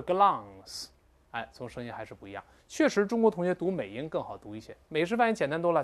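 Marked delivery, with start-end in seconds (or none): 0.0-0.9 "glance" said the Chinese-style way, by contrast; contrast: the wrong "glance"; wrong version. Shown as a demonstration. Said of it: "而不是glance". (错误的glance读法)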